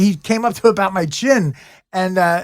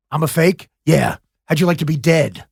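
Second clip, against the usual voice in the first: a hint of a gruff Santa; low, quoting a mall Santa; Santa Claus voice; 5 semitones lower than usual. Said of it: "talking to me as the Santa Claus".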